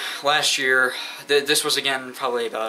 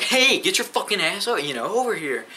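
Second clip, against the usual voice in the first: higher-pitched mock yell at a game; retold yelling; 7 semitones higher than usual. Player at an unresponsive phone game, imitated mild yell. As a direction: yell it lightly, imitating your frustrated self. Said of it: "yelling at my game".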